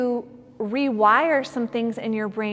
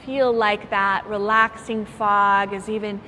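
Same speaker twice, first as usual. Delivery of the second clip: guided meditation. Acted. Yoga teacher guiding students through relaxing fog, calm meditation voice. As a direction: ease them into relaxation, lingering on phrases.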